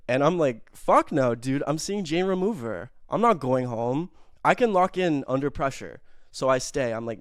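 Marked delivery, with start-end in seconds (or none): 0.7-6.0 defiant mock refusal. Refusing to leave the show.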